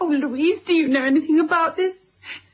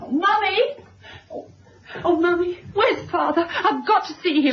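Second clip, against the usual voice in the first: tearful, breathless calls for her mother; distressed, near tears; 3 semitones higher than usual. Acted. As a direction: burst in close to crying, pleading for Mummy. Daughter bursts in, distressed.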